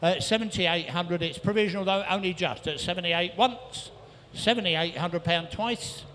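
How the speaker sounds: rhythmic rapid-fire bid calling; auctioneer calling. Real, not acted. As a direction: rattle off the bids like an auctioneer. Auctioneer taking bids.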